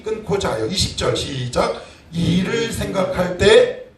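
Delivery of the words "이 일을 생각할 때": slow, loud, each word leaned on; slow and emphatic. Shown as a demonstration. Preacher reading the verse slowly to the congregation. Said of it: "무슨, 이 일을 뭐 할 때요?".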